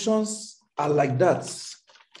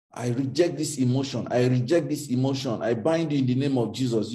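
mock prayer; 3 semitones lower, faster than usual. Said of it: "Don't pray away your emotions".

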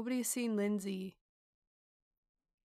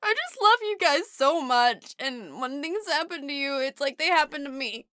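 fake crying; 7 dB louder than usual. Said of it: "She's using her fake cry".

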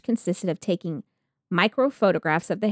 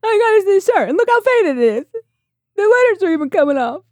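whiny victim voice; 13 semitones higher, 8 dB louder, faster than usual. Retold or imitated. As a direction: whimper like a pitiful plaintiff. Mock plaintiff continues.

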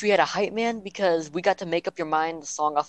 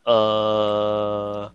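baffled; 8 semitones lower than usual. Retold or imitated. Acts out band's baffled reaction.

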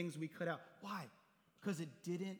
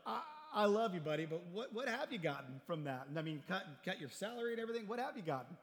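laughing friend; 3 semitones higher than usual. Retold or imitated. Friend laughing at the pastor's pay cut, laughing. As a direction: crack up while asking. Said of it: "He's laughing".

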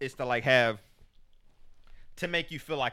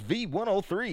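white radio DJ voice; 5 dB louder than usual. Pretend. Joking to his partner, a hint of a cheesy radio DJ. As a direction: play a cheesy white radio host introducing himself. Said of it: "I'll do the D J voice".

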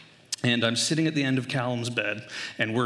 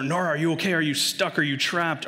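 imitating an anxious mother's higher-pitched questions; worried mother calling; 4 semitones higher than usual. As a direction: fire worried questions through a door. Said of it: "she's yelling through the door".

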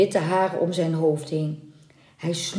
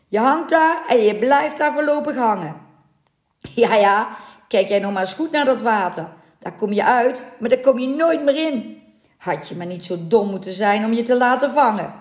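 gloating sailor's jeer; mock the helpless captive; smug, scornful teasing; taunting; 4 semitones higher than usual. Sailors taunting the hanging mermaid.

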